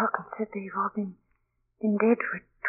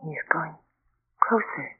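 trembling hushed whisper; frightened whisper; fearful whisper; 3 semitones lower than usual. Acted. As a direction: whisper it, too scared to speak up. Watching the ghost in fear.

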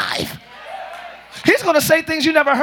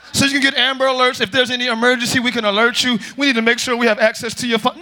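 mock official spiel; 5 semitones lower, faster than usual. Voicing the authorities' official justification.

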